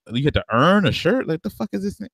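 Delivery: high, incredulous mocking friend voice; hammed-up outraged homie; mocking disbelief. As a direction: screech it like you can't believe your ears. Friend mocking the iron pronunciation.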